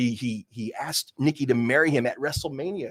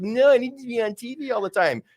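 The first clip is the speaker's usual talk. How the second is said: Nikki Bella impression; 7 semitones higher than usual. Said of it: "Nikki Bella was like".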